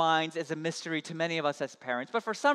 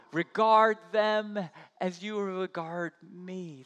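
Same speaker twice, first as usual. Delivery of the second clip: Christ pleading. Acted.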